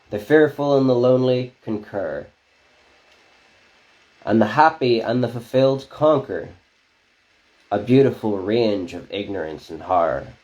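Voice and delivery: rhythmic spoken word reading; poem recitation. Acted. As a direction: perform each line like slam poetry. Reads clownfish poem.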